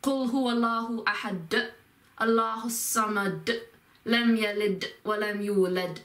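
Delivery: spoken verses with a released d on "أحد", "الصمد" and "يولد"; emphasized D endings. Shown as a demonstration. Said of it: "D sound on it has that same emphasis".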